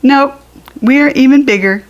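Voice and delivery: quick, loud, eager brag; boasting puppies. A narrator's reading. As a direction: insist you're bigger, fast and proud. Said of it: "said his brothers".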